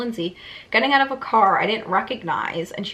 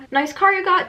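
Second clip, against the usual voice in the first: teasing; 9 semitones higher, 5 dB louder than usual. Acted. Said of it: "Jake said".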